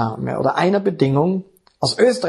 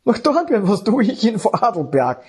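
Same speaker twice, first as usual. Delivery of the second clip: reluctant protest; 5 semitones higher than usual. Retold or imitated. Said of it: "Und ich wollte nicht".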